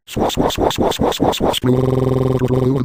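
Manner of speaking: hissed "swah" laser zaps, no voice; imitated laser zaps. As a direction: spit out zappy cartoon laser sounds. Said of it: "I'm firing my laser".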